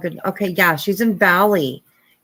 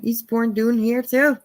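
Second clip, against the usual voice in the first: put-on higher-pitched, clumsy Scottish accent; bad Scottish accent; 3 semitones higher than usual. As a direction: have a playful go at sounding Scottish. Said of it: "I'm horrible at it".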